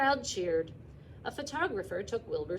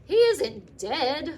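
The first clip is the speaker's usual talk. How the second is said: much louder, drawn-out holler; 7 semitones higher, 13 dB louder, much slower than usual. Acted. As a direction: yell it slowly across the ring. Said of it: "hollered Zuckerman".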